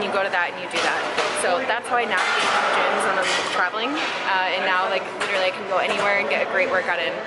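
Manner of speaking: talking while chewing gum. Real, not acted. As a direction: speak around a piece of gum. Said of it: "I'm sorry, I have gum in my mouth".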